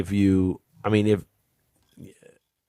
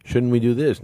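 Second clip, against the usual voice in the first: quoted question; 5 semitones higher than usual. Retold or imitated. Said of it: "say no as a question".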